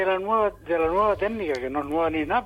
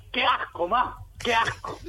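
put-on a mild childish whine, slow on "ma, qué asco"; half-hearted kid's complaint about dinner; whining child; 4 semitones higher, slower than usual. A boy telling mum he hates the stew, lightly whined. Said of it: "Y yo respondía".

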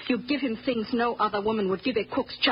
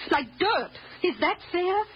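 impassioned protest; 5 semitones higher than usual. Acted. Mother defending Toby to her employer, indignant protest. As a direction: pitch raised in indignant defence.

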